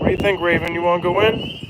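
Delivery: sweet high voice for the dog; high pet talk. Real, not acted. Talking to the dog.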